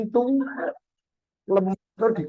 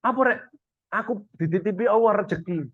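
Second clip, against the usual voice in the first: eager helper; 2 semitones higher, 3 dB quieter than usual. Retold or imitated.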